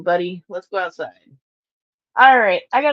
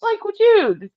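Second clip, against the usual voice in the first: exasperated dude; 4 dB louder than usual. Real, not acted. Exasperated at cat.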